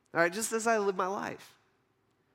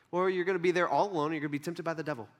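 quick, offhand delivery; matter-of-fact answer; 2 semitones lower, faster than usual. Acted. God answering Jesus about the wilderness, casually matter-of-fact. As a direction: break bad news casually, dropping away at the end.

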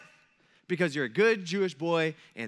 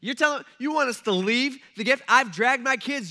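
indignant disbelief; 6 semitones higher, 5 dB louder than usual. Retold or imitated. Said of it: "And everybody's just like".

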